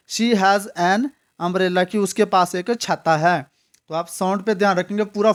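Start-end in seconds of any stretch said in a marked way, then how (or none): 0.1-2.0 She has an umbrella, slow and a bit louder, an linked to umbrella; slow model sentence. Shown as a demonstration. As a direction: read it out slowly for students. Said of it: "अ की sound से पहले हम article एन".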